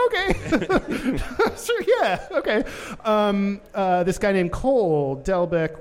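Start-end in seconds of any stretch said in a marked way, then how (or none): 0.1-2.6 high, laughing mock agreement; laughing sarcastic okay. Laughing at the site's claim, high sarcastic okay. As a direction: scoff through a laugh, pitched way up.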